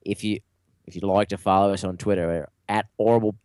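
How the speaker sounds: botched Australian slipping into Cockney; attempted Aussie accent. Host plugging Twitter on a dare, shaky Aussie accent. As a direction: try Aussie, drop the H like Cockney. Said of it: "do this in an Aussie accent".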